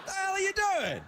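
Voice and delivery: put-on puppet Scottish accent; hammy Scottish puppet voice. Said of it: "Me, Scottish puppet Drew Carey".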